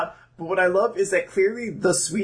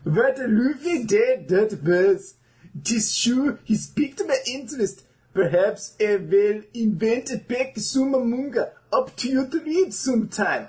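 mock Swedish reading; 4 semitones higher than usual. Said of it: "a Swedish accent of English words".

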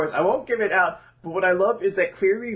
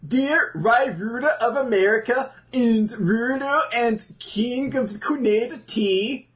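mock Swedish reading; 5 semitones higher than usual. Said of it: "my terrible Swedish Chef voice".

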